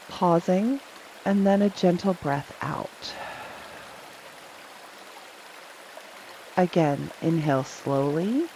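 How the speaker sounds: calm body-scan guidance with long pauses; unhurried, spacious meditation voice; guided meditation. Real, not acted. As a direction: gently guide them through each breath. Leads a breathing and body scan.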